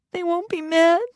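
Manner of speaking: put-on very high small boy question; timid child. Little boy asking the nanny, timid. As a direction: ask shyly like a little boy.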